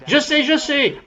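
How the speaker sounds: high, eager cry of a woman who knows; eager shout. Retold or imitated. Woman in church bursting to answer, high eager cry. Lady jumping up and down.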